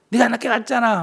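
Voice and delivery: high-pitched mock reproach; acted angry complaint. Husband blaming wife for coming late, crossly. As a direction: fire back as the aggrieved spouse.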